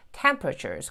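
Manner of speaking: "temperatures" squeezed to TEM-pruh-churz; reduced middle in "temperatures"; dropped middle E. Shown as a demonstration. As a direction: say "temperatures" with the middle E barely there. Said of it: "이를 거의 발음하지 마시고".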